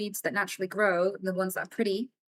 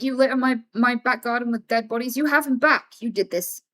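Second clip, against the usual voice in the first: put-on furious kid accusing; 3 semitones higher, 5 dB louder than usual. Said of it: "And I was like".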